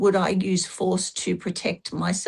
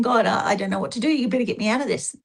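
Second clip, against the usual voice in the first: hurried prayer; faster than usual. Retold or imitated. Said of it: "he's prayed again".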